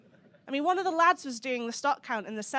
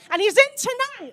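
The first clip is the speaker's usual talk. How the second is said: mock shock; 12 semitones higher, 10 dB louder than usual. Mock alarm at audience.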